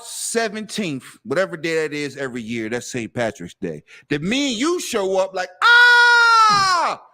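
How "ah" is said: a loud startled yell, high; sudden shout. Retold or imitated. Friends at a Saint Patrick's Day party, a loud yell. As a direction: blurt it out like a reveler.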